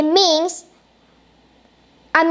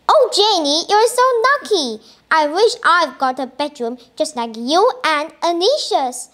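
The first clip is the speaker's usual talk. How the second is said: passionate. Acted. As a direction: gush with envy at a friend's room. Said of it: "said Alice passionately".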